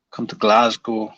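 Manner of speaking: half-hearted Scottish accent; attempted Scottish accent. Shown as a demonstration. Streamer rereading a challenge from chat, failed Scottish accent. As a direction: have a weak go at a Scottish accent. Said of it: "I can't do a Scottish accent".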